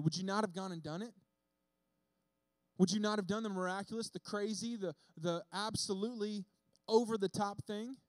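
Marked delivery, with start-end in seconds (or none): 2.8-8.0 preaching climax. Real, not acted. Preacher builds to a peak.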